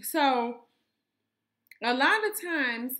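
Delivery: talking while chewing gum; words round a wad of gum. Real, not acted. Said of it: "I don't know why I start chewing gum".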